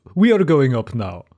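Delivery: put-on thick Eastern European accent. Retelling what a big stranger said as they all started going up, thick Eastern European accent. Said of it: "in a thick Eastern European accent went".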